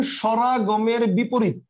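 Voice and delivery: "স্বরাগমের বিপরীত" stated slowly for note-taking; measured dictation. Shown as a demonstration. Teacher giving students a definition to write down, measured dictation. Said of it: "লিখে রাখেন".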